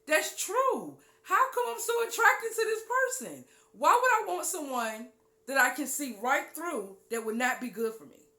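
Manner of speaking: a hint of a torn young believer; mimicked listener. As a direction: play a half-convinced churchgoer pleading. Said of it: "You're like".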